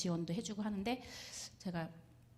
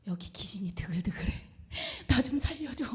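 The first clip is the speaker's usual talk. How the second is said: trembling voice; 3 semitones higher than usual. Retold or imitated. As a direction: whisper the ghost warning, then beg for help. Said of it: "막 떨리는 목소리로".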